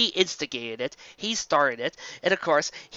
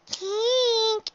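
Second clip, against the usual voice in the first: serious intoning. Acted. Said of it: "intoned in a serious voice".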